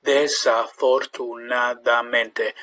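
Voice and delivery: nearly natural pace; building up speed. Shown as a demonstration. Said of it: "gradually build it up".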